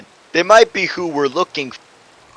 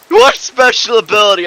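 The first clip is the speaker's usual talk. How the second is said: high, loud startled shout; 7 semitones higher, 4 dB louder than usual. Acted. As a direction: call it out in alarm. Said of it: "and shouted".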